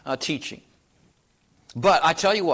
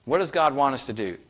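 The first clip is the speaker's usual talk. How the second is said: ordinary delivery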